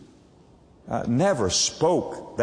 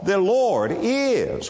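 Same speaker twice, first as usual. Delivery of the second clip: "is" weighted at the end, slow; slow, let "is" land with weight; stress on is; 6 semitones higher, much slower than usual. Shown as a demonstration. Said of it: "put an emphasis on the word is".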